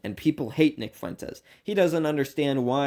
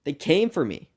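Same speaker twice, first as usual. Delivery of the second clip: quoting Fuentes; 9 semitones higher, 5 dB louder than usual. Retold or imitated. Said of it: "When he says".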